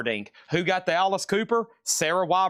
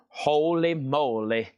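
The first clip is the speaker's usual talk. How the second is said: mock exclamation; slower than usual. Mock exclamation, slow odd voice.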